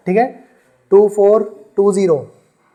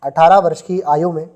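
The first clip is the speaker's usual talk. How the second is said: dictation. Shown as a demonstration. Teacher dictating a word problem to the class, measured dictation. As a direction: read it out so students can write it down. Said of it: "लिखो जरा".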